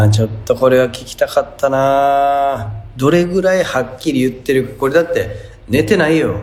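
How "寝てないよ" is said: said big. Shown as a demonstration. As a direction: blurt it out in a big voice. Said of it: "ってデカめに言っててもおもろいし".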